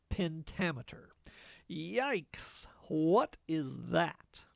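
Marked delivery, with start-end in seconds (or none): 1.7-4.4 playful fake shock, the question whispered; hammed-up yikes, then a whispered question; mock alarm. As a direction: pretend to be spooked by the term. Mock student alarm at jargon.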